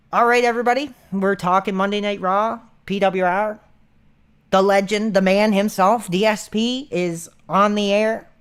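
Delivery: a hint of a hyped wrestling show intro; mock show host. Imagined guest on Phil's show, lightly hammed-up host intro. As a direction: open the show like a radio host. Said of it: "what I would be like".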